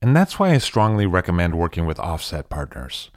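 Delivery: polished, measured podcast ad delivery; scripted host-read promo; sponsor ad read. Acted. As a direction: sell the sponsor with crisp, deliberate emphasis.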